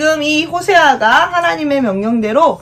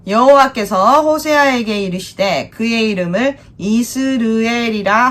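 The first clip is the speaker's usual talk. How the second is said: scripture reading. Shown as a demonstration. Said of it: "시작!".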